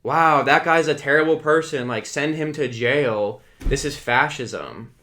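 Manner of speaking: sarcastic mock outrage. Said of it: "And I'm supposed to be like".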